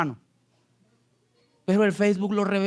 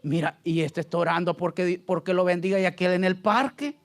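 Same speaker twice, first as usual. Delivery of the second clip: lower, subdued voice, lightly imitating God; God, lightly voiced; 3 semitones lower than usual. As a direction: play God remarking to himself, pitched down. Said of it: "Dios oye mi oración y dice".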